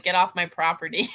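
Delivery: acted shout of get off my property; half-playful angry yell; mock angry shout. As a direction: shout it out like a fed-up landlady. Acted quote of heroine.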